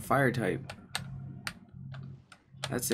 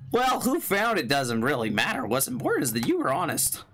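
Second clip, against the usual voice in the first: idiot voice; 3 semitones higher than usual. Acted. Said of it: "voice him like a kind of an idiot".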